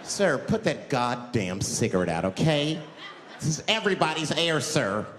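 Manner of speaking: firm public reprimand, acted; mock scolding passenger. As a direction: lay down the rule to a smoker. Passenger scolds him for smoking.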